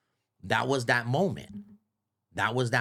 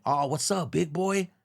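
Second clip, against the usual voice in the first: lifting into a higher greeting on the name; casual pleased greeting; 4 semitones higher than usual. Acted. Caller greeting Big Boy on the phone, casually pleased. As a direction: greet him like a buddy, rising at the end. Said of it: "That's how I picked up".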